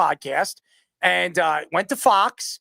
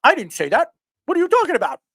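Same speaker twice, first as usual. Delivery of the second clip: mock Stephen A; 7 semitones higher, faster than usual. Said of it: "He's like".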